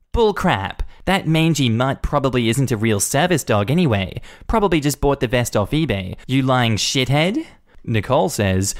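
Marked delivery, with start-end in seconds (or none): 0.1-7.4 scornful Karen. Acted. Karen insulting Todd.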